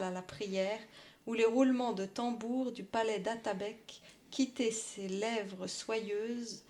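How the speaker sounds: measured poem recital; poem reading. Acted. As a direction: read it like a poem. Reads poem aloud.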